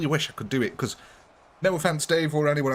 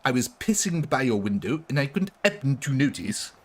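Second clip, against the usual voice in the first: mock French policeman. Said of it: "pretending to be a French policeman".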